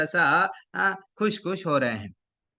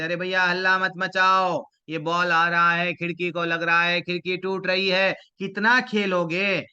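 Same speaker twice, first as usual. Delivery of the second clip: put-on raised voice, telling children off; scolding neighbours; 4 dB louder than usual. Apartment residents to children playing cricket, loud scolding. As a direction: complain loudly, drawing out the last words. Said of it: "सब बच्चों को बोलते".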